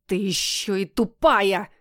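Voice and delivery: a lightly voiced cat squealing an insult, slowed; верещащий кот. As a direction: squeal it out as an outraged talking cat. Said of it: "заверещало животное". (кот возмущённо верещит, голос лишь слегка изменён)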